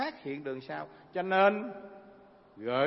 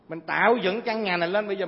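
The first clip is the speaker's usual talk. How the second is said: emphatic preaching; 2 semitones higher, 8 dB louder than usual. Acted.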